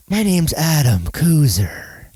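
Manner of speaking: slow, sleepy radio host drone; sleepy monotone. Retold or imitated. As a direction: drone it slowly like a late-night host. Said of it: "I have a sleepy monotone?".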